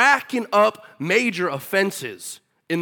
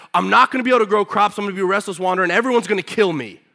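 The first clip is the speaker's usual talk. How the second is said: whiny complaint; 3 semitones higher, 5 dB louder, faster than usual. Retold or imitated. Cain complaining, retold.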